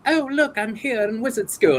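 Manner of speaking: very high put-on British schoolboy; Harry Potter. Improviser faking a boy wizard he didn't know, high voice. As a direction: pipe up in a high, faked British voice. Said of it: "they would make me do Harry Potter".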